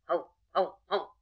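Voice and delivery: short voiced dog barks; barking dogs. Dogs meet the weeping hare, barking. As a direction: yap out three separate barks.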